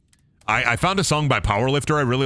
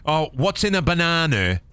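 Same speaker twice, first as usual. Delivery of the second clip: higher, put-on British accent; mock British; 4 semitones higher than usual. Gamer setting up potassium joke, mock British accent. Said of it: "I make fun of the British".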